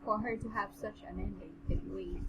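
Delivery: measured, even read-aloud voice; understated storybook narration; story narration. A narrator's reading. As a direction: read the passage out steadily.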